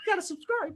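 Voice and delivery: very high, squeaky cartoon mouse voice. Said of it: "sound like Mickey Mouse".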